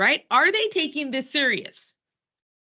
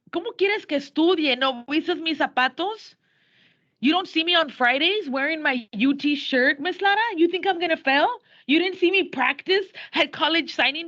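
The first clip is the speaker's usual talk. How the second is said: cocky student; 4 semitones higher than usual. Retold or imitated. Teacher retells Biff as student.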